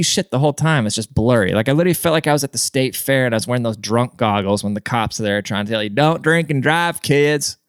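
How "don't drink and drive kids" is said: slow, drawn-out cop imitation; mock cop warning. Cops at the state fair warning kids, slow mock lecture.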